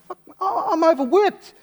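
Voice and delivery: high, loud whining shout; high mock yell; exasperated yell. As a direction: complain at the top of your voice. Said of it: "I said".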